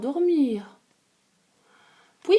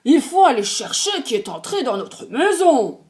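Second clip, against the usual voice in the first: big bear voice; 2 semitones higher, 6 dB louder than usual. Acted. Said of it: "dit de sa grosse voix".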